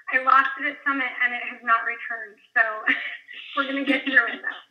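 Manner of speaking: hoarse, worn-out voice; scratchy voice. Real, not acted. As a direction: speak with a scratchy, lost voice. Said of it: "excuse my scratchy voice".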